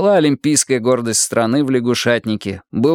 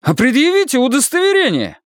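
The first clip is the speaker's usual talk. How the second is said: voice cracking; 14 semitones higher than usual. Acted. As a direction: crack into a squeak mid-demand. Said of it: "потребовал Илья, дав петуха".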